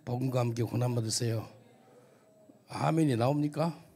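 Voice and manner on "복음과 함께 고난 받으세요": loud, cheerful greeting to the person beside you; greeting the neighbour. Shown as a demonstration. Preacher leads the congregation in greeting: loud and bright. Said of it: "한번 인사합시다".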